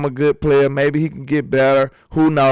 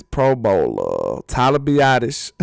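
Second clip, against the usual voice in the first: drawn-out mock announcement; 2 semitones lower, slower than usual. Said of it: "Why you gotta say it like that".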